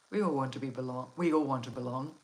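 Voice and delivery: stumbling over words from cold; cold lips. Real, not acted. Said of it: "stumbling over my words because my lips are so cold".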